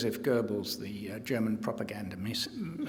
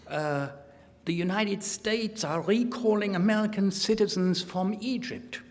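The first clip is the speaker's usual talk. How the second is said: put-on German-accented diary reading, pitched up; mock German accent; 6 semitones higher than usual. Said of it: "speaking with a mock German accent".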